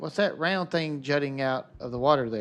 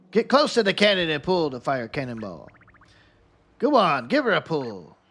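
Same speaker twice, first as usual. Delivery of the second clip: hearty pirate urging on a mate; lightly voiced ship's captain. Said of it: "I got tired of doing the pirate voice".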